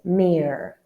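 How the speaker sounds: "mirror" clipped the American way, almost "mir"; American accent. Retold or imitated. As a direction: mimic an American saying "mirror". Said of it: "in American accents".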